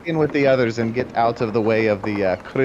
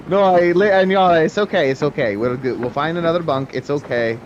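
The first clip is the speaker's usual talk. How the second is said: hasty soothing; 4 semitones higher than usual. Acted. Dwarf soothes tree they just upset, hasty reassurance. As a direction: backpedal and calm an upset child.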